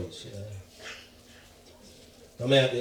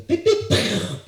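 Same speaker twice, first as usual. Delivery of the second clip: loud, high beeps cutting into speech; imitated beeps; 9 semitones higher, 8 dB louder than usual. Comic interrupts his retold reply with noise, imitated beeps. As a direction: blurt out sharp imitation beeps.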